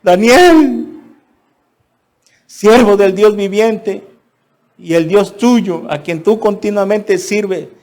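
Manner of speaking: high, loud call down into the pit; anguished king shouting into the lions' den. Retold or imitated. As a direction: cry out to Daniel from above the den. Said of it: "con voz triste".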